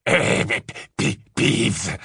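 bewildered stumbling over the P; stammering. A narrator's reading. Caretaker baffled by the order to fetch Peeves, stammering. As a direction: splutter the name haltingly in disbelief. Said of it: "bredouilla Rusard".

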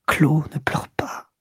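slow whispered plea with a catch of crying; tearful whisper. Acted. Duroy begs his mistress Clo to stop crying, tearfully whispering. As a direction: beg her through your own tears, barely voiced. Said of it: "Il murmura".

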